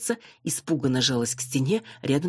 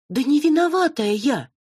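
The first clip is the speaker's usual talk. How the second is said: high, loud squeal of protest; shrill blonde shrieking innocence; shrieking denial; 13 semitones higher, 7 dB louder than usual. A narrator's reading. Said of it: "завизжала блондинка в красном".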